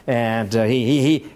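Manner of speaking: normal talking voice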